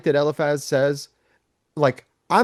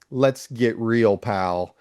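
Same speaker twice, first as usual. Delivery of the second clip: slow, blunt confronting voice; 5 semitones lower, much slower than usual. Retold or imitated. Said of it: "he's like".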